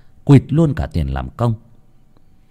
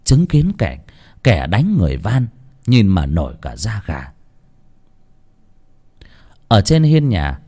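ordinary delivery

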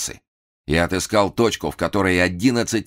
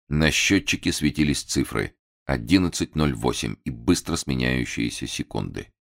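plain reading voice

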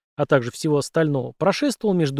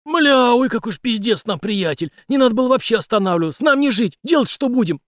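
panicked; 8 semitones higher, 4 dB louder than usual. A narrator's reading. Panicking partner.

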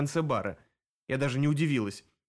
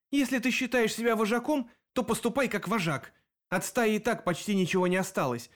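higher, firm scolding; stern rebuke; 5 semitones higher than usual. Acted. Greta scolds Viktor, stern and higher. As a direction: lay down an ultimatum. Greta lectures the pack leader.

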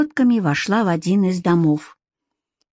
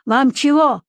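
higher-pitched call at ordinary volume; mild shout; 5 semitones higher than usual. Acted. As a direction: call over to them without real force. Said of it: "крикнул Никита".

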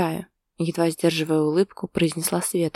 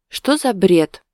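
amused scoff, a bit louder; ironic scoff; 2 semitones higher, 7 dB louder, much slower than usual. A narrator's reading. Wife scoffing at husband's jealousy, ironic. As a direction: wave the nonsense off with a snort. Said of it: "иронично хмыкнула девушка".

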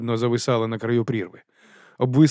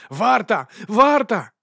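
much higher, louder summons; calling out; 10 semitones higher, 4 dB louder, much slower than usual. A narrator's reading. Вонс кличе варту, голосно. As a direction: yell for the guard.

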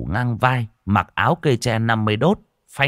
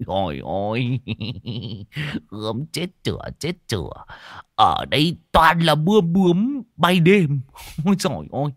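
giggling lecher; 4 semitones higher than usual. Acted. Old man giggling at girls.

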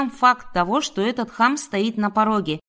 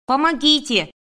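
higher-pitched cry for help in horror; terrified cry; 5 semitones higher, 4 dB louder than usual. A narrator's reading. Woman calling neighbours as a stranger forces the door, terrified cry. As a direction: call out in terror, pitched up. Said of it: "в ужасе закричала я".

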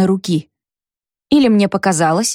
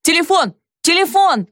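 much higher urgent calls; Pavel's shout; 9 semitones higher than usual. A narrator's reading. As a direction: shout over the din. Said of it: "кричал Павел".

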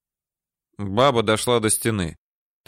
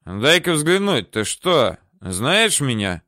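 put-on slow drunken suspicion; 3 semitones higher, slower than usual. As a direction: squint and slur it. Drunk Yasha peers closer.

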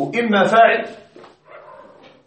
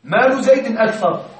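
slow example read; 2 semitones higher, 3 dB louder than usual. Shown as a demonstration. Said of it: "فأنت تشعر أن الأصل هكذا".

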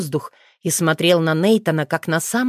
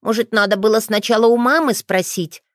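slightly worried; 5 semitones higher than usual. Acted. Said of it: "Тео слегка заволновался".

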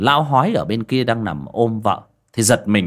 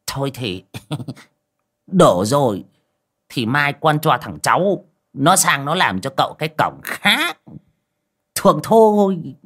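sheepish laugh; 5 semitones higher than usual. Acted. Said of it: "cúi mặt xấu hổ".

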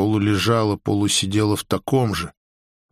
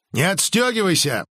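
резко, повышенным тоном; одёрни резким высоким окриком, не повышая громкости; резкий приказ; 7 semitones higher than usual. A narrator's reading. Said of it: "резко сказал Криди". (резко)

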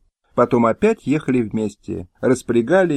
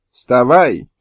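loud commanding shout; loud stern order; 6 dB louder than usual. Acted. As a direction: order the old man up. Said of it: "закричала на старика пани Мыльская".

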